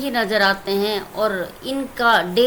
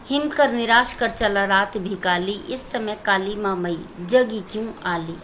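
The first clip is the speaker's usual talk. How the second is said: poem recitation; 2 semitones lower than usual. Shown as a demonstration. Teacher recites poem stanza.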